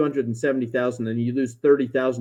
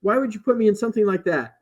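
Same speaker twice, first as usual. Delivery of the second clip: retold panic; 7 semitones higher than usual. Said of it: "is having a panic attack".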